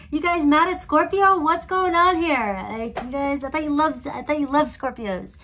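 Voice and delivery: high, loud mock disbelief easing off; retold shock. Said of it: "I was so shocked".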